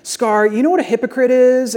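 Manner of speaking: condemning sermon. Retold or imitated. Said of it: "The condemning sermon".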